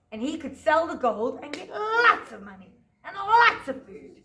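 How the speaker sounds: put-on lively storytelling for small children; story narration. A narrator's reading. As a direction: tell it like a picture-book story to a class. Teacher tells Jack story.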